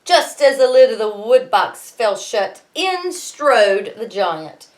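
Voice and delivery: lively read-aloud storytelling; story narration. A narrator's reading. Teacher reading Jack and the Beanstalk to her class, lively narration.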